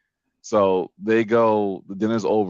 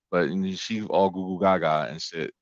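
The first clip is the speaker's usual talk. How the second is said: ordinary talk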